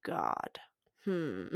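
hushed unvoiced whisper to God. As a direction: breathe it in a secret whisper.

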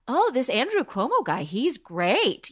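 put-on swooping, admiring quote in own accent; retold admiring reaction. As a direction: gush with swinging pitch, no accent put on. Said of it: "people who live in the U K that are like".

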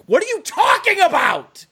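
high exasperated yelp of disbelief; exasperated outburst. Real, not acted. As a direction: squeal it out in disbelief. Exasperated at analyst's reply.

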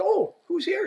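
high-pitched, sing-song taunt; retold mocking surprise. Player spots the rep through the window, imitated mocking surprise. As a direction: pitch it way up in fake delight.

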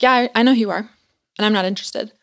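imitating her aggressive brush-off. Woman at door turning missionaries away, aggressive tone. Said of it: "like, aggressive tone of voice".

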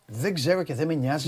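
slow, disbelieving repeat; the host slowly repeats the answer, stunned; incredulous repeat. Retold or imitated. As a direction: spell it out slowly as if you can't believe it. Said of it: "Λες τον πρόεδρο δικαστηρίου".

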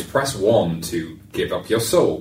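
slow, flat automated phone menu; robotic IVR voice. Pretend. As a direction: read it like a machine menu. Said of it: "that robotic voice".

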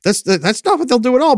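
a hint of the calm logical side; logical brain voice. Left brain reasoning with the panicking listener, lightly voiced. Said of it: "logical brain is gonna say".

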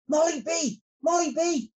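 lightly shouted storybook summons; calling shout. A narrator's reading. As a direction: call out for a helper. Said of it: "he shouted".

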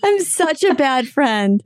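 drawn-out sheepish whine of shame; guilty wail. Real, not acted. Friend caught out on air, slow sheepish wail.

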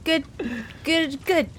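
flustered Annie. Acted. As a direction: fumble every word like you want to escape. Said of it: "Annie's just gonna nod and be like".

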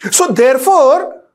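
ordinary talk

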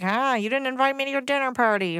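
hammed-up petty fury; petty mock outrage. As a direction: play the snubbed diva. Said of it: "and be like".

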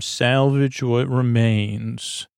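slow, relishing salvage what remains; savoring the phrase. Shown as a demonstration. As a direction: linger over each word of salvage what remains. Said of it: "That's a really nice term".

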